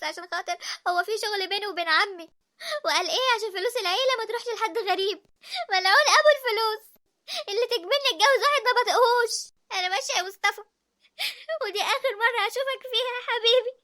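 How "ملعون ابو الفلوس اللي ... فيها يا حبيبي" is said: بكاء وداع. Acted. تبكي وتودع حبيبها.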